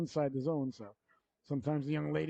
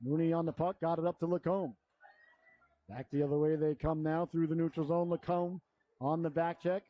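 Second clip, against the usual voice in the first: brisk live play-by-play; hockey announcer; 2 semitones higher than usual. Real, not acted. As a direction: call the game as it happens.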